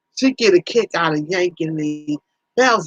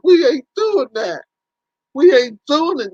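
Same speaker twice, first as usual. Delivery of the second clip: firm refusal; 5 semitones higher than usual. Real, not acted. Refusing the garbage idea.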